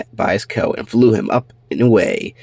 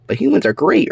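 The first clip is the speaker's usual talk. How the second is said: high, earnest objection; protesting pup; 9 semitones higher than usual. Acted. Orby answering the cat, high and earnest. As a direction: defend humans eagerly.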